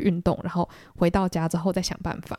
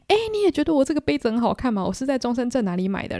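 higher, eager gushing question; excited; 6 semitones higher than usual. Retold or imitated. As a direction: show off the new cup, thrilled. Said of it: "我就超兴奋的跟他说". (兴奋地炫耀新杯子，音调上扬)

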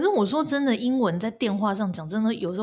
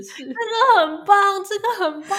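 laughing approval; 12 semitones higher, 6 dB louder than usual. Real, not acted. Friend praising the scam-call English practice, laughing. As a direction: crack up approving.

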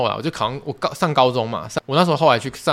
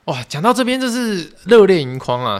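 choked up; 8 semitones higher, 6 dB louder than usual. Real, not acted.

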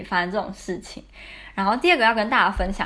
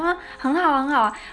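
higher, overly bright insistence that all is fine; fake cheerful; 7 semitones higher than usual. Answering her roommate through the bathroom door, fake cheerful. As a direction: cover up the crying with a forced cheery tone. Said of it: "可是就是超假的".

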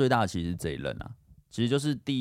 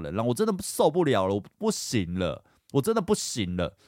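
higher, strained pleading as if crying; retold breakdown; 5 semitones higher than usual. To his girlfriend on the phone, retold tearful breakdown. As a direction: replay the tearful outburst, pitch climbing. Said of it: "然后之后我就开始崩溃大哭的，疯狂的讲".

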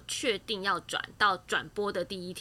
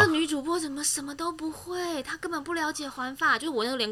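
imitating a worried colleague; 5 semitones higher than usual. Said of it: "他可能想说".

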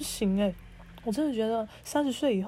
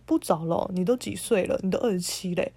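lower, curt jab of a retort; imitating a condescending boyfriend, lower; mock boyfriend snapping; 6 semitones lower than usual. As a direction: voice the boyfriend talking down to her. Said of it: "他就给我呛说".

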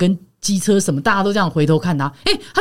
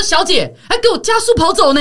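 retold angry call; 9 semitones higher than usual. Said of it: "我说".

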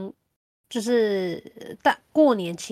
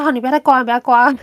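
loud and high, pleading her to stop; urgent plea; 4 semitones higher, 9 dB louder, much faster than usual. Retold or imitated. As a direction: beg loudly to stop scratching. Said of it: "我说".

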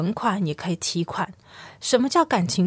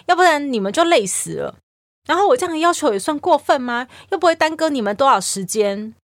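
mock angry rant, higher and louder; retold angry mother; 4 semitones higher, 4 dB louder than usual. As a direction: act out a mother snapping back in mock anger. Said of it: "然后就开始很生气的说". (模仿妈妈生气地抱怨，声音偏高偏响)

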